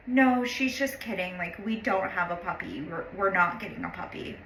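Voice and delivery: softly retold meek reassurance; small little voice. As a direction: play it small and hushed, barely butting in. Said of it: "small little voice".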